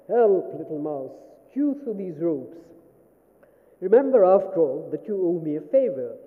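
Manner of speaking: hammed-up lion demanding help; roaring lion. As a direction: call out loudly like a trapped lion. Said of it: "roared the lion".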